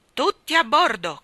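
loud, high, abrupt order; curt admiral's shout; brusque command. A narrator's reading. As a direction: order everyone aboard sharply. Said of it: "comandò bruscamente".

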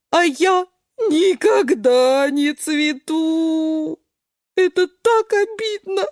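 high, loud whimpering complaint; mock tearful beet; sobbing beet. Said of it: "всхлипывает свёкла". (свёкла всхлипывает)

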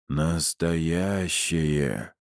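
seance medium. Acted. Медиум в трансе называет карту.

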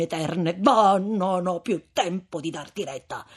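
sorrow turning into reproach; grieved anger. Acted. Frate addolorato e severo. (sdegno addolorato del frate)

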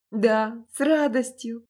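loud, happy eager cry; eager exclamation. A narrator's reading. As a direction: exclaim with joy. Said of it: "воскликнул юноша".

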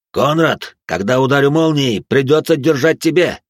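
loud, urgent call; shouted instruction. Acted. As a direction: shout the plan across the fight. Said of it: "добавил экзорцист".

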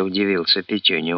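ordinary delivery

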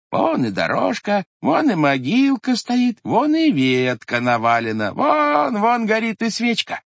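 pointing things out in rising glee; excited discovery. Acted. Old grandfather spotting the grave, excited and eager.

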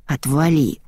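ordinary delivery, nothing marked

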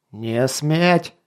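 roaring. A narrator's reading. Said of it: "заревел король".

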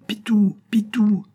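high, loud pursuing call; calling out a name. A narrator's reading. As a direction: holler the name after someone running away. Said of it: "qui criait non plus".

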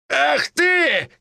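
high, sharp cry of anger; startled outburst. Acted. Old man knocked to the floor, high startled cry. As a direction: yelp it high in shock.

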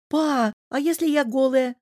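put-on a girl's indignant squeal. A narrator's reading. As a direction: protest to her father, outraged. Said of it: "возмутилась девушка".

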